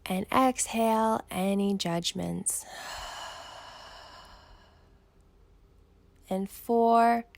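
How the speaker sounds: unhurried meditation guide with long pauses; measured, calming breathwork instruction; guided breathing meditation. Acted. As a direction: count them calmly through each breath, leaving room to breathe. Leads counted breathing meditation.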